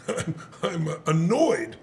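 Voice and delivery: slow, understated admission; unmoved partner. Retold or imitated. Unbothered partner admitting his feeling, slow understated delivery. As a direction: mimic mild annoyance, taking your time. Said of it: "he's not even moved by this thing".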